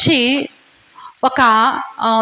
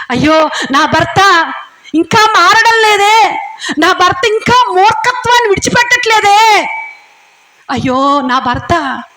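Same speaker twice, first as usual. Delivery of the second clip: imitated wife weeping; 4 semitones higher than usual. Wife crying to God over her stubborn husband, slow sobbing wail. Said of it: "అని ఏడుస్తున్నావా?".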